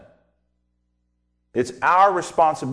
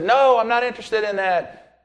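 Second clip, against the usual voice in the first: stubborn refusal; 7 semitones higher, 3 dB louder than usual. Retold or imitated. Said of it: "He said".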